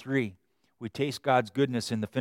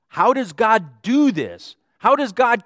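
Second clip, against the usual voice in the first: slow rising call; 8 semitones higher, 9 dB louder, slower than usual. Acted. Preacher's slow rhetorical call.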